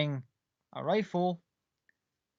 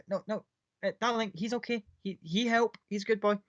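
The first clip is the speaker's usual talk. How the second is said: soothing lady; 7 semitones higher than usual. Acted. Lady soothing her pet bear.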